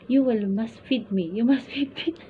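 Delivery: put-on high, loud child voice insisting; whiny demanding child. Ward to his nanny, demanding to be fed, high loud child whine. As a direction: whine like a spoiled little boy who wants spoon-feeding.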